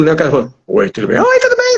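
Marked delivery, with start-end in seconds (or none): 1.2-1.8 same greeting jumped way up high; absurdly mismatched voice. Shown as a demonstration. Demonstrating a jarring switch between dub and original, absurdly high voice. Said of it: "Aquela mudança brusca de voz".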